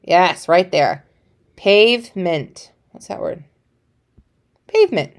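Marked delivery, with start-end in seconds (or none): 1.6-2.7 "Pavement" said slowly, chunk by chunk; slow modelling. Shown as a demonstration. Teacher modelling a new word for her class, drawn out slowly. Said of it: "teacher models the word slowly". 4.7-5.1 bright praise. Shown as a demonstration. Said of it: "praising student's answer".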